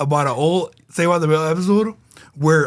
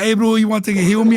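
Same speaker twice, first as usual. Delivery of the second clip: higher and quicker, pushy friend offering a hit; tempting offer; 5 semitones higher, faster than usual. Retold or imitated. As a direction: egg him on, eager and fast. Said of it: "Bitches be like".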